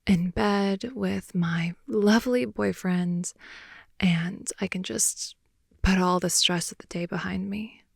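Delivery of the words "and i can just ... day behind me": ASMR whisper. Acted. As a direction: whisper it close to the ear, winding down.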